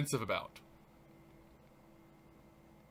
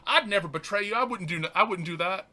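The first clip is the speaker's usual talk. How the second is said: mock protesting Peter; 4 semitones higher, 5 dB louder than usual. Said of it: "the one saying".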